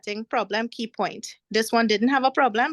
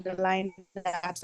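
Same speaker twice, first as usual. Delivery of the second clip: choppy, glitching call audio; words breaking up over a bad connection; voice lagging; 4 semitones lower, 7 dB quieter, slower than usual. Real, not acted. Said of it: "Miss, your voice lagging".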